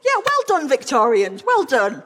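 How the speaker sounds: high-pitched start, falling away; mock congratulation. Lecturer applauds the Victorians' bawdy verse, mock congratulation. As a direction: congratulate them with mock approval.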